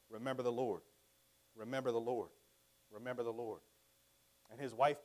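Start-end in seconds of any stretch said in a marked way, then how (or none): 0.1-3.6 soft, low repeated plea to remember the Lord; tender plea. Retold or imitated. Peter to his wife before her death, softly pleading. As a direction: quietly urge her to hold on.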